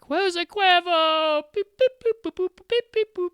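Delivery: high, slow robot beeps; robot beeping. Pretend. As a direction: beep it out like a toy robot. Silly robotic beeping bit.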